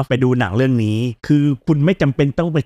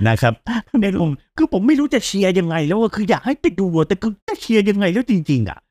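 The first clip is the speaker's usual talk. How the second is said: laughing while talking; 7 semitones higher than usual. Real, not acted. Cracking up over bad film.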